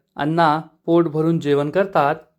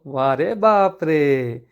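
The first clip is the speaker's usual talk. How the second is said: mock amazement; 3 semitones lower, much slower than usual. Amazed exclamation at boast.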